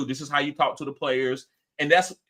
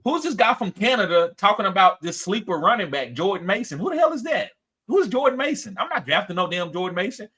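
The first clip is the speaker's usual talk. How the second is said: mock-indignant, pitch leaping on the questions; incredulous retelling; 4 semitones higher than usual. Recalling doubts about a Canadian's sleeper pick, incredulous. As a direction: replay your scoffing disbelief, higher in the middle. Replays own disbelief at draft pick.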